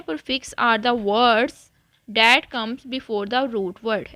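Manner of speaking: very slow, word by word dictation. Acted. Teacher dictating the definition to students, very slow. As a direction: spell it out slowly so students can write.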